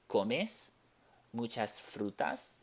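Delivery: comes muchas frutas with a rising question tune. Shown as a demonstration. Teacher models the question to students, rising tune. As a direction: lift the voice at the end as a question. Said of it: "change the inflection in our voice".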